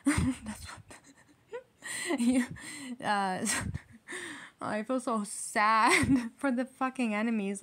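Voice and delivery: talking through laughter; helpless giggles breaking up the words; real laughter. Real, not acted. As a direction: crack up mid-sentence, words stretched out. Cracks up while reading cards.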